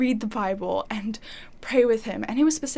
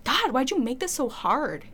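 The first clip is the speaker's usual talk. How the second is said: upset plea; 3 semitones higher than usual. Retold or imitated. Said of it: "I was so upset".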